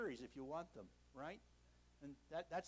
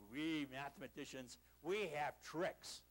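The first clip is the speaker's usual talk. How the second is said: a lightly lowered, slow mock Russian mathematician; deep voice; 4 semitones lower, slower than usual. Russian mathematicians in a taxi answering the lecturer, lightly deepened voice. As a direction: drop the voice a little, as if self-important. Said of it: "in deep voice".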